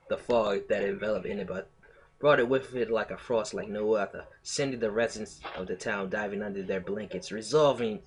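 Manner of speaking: story reading slipping into Brooklyn; Brooklyn accent. Real, not acted. Streamer retrying the story opening, unintended Brooklyn accent. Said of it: "I'm doing a fucking Brooklyn accent".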